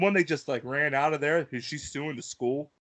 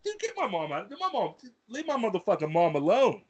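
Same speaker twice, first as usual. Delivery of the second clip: higher-pitched mock-angry protest; retold irritation; 5 semitones higher than usual. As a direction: act out being pissed at the boss. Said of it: "So I'm kinda pissed".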